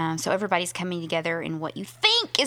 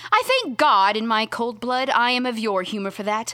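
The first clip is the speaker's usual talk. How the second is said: higher, louder theatrical reading; a mocking Beatrice teasing her rival; 4 semitones higher, 3 dB louder than usual.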